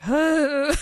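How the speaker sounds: loud, high exaggerated gasp; mock overwhelmed "huh"; imitated gasp. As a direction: act out a big emotional gasp. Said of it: "and I was like".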